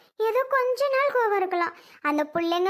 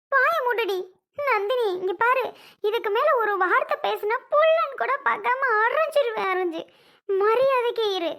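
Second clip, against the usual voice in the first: stern threat. Acted. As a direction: lay down the law, daring her to speak. Mother threatens to slap daughter.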